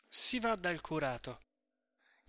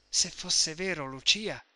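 "Se fosse vero" detto piano, in tono supplichevole e pieno di speranza; supplichevole, speranzoso; 3 dB louder than usual. Acted. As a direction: supplica speranzosa a Lucia, "vero" che scende dolce. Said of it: "con un'aria d'aspettazione supplichevole". (Renzo supplica Lucia, speranzoso e implorante)

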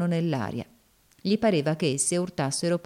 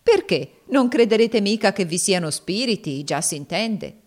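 louder mock questioning, easing off at the end; taunting slave woman, mocking; 3 semitones higher, 4 dB louder than usual. Slave woman teasing her master about spirits, mocking. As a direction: needle him about his fear, lightly in character.

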